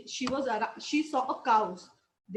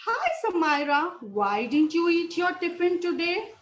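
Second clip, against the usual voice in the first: lightly voiced ant, higher pitch; ant character; 4 semitones higher, 3 dB louder than usual. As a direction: ask as a curious little ant, lightly acted. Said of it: "one of the ant asked her".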